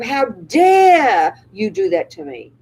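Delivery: slow, drawn-out outraged line; mock outrage. Shown as a demonstration. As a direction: let the outrage stretch out on "dare". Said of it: "the pain and the outrage of".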